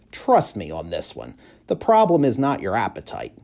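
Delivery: stray dog advising. Acted.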